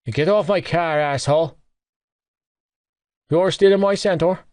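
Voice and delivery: hammed-up drunk yelling; drunken roar. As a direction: bellow it through the car window. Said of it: "Gibbsy roared".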